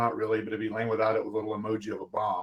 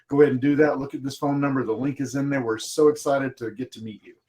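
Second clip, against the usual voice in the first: excited voicemail. Shown as a demonstration. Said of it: "It'd be like".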